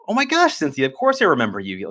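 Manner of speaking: put-on overjoyed to hear from an old customer; delighted surprise. Young salesman greeting Cynthia on the phone, delighted. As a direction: voice leaping high on oh my gosh, then settling.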